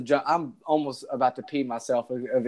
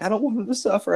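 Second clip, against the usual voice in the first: high-pitched mock-distressed pleading; imitating upset wife; 10 semitones higher, faster than usual. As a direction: whine it high, mimicking her upset. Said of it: "she was all upset about it".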